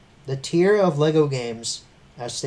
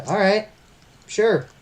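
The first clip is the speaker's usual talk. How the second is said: acted reply; 9 semitones higher, 7 dB louder, slower than usual. Acting own reply in retold chat.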